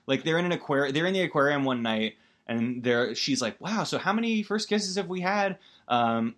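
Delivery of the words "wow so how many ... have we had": put-on high-pitched wide-eyed girl voice; high girly quote. Podcaster mimics Lucy asking Sandler, high and sweet. Lucy asks about first kisses.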